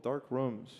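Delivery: Boston accent, dropped r in Dark; broad Boston vowels in Dark Rooms. Real, not acted. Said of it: "This is your Boston accent".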